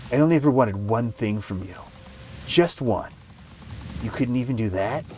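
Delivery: rising anger. A narrator's reading. Mother confronting her daughter, anger growing. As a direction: let the disappointment swell without shouting. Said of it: "Her tone grew in volume".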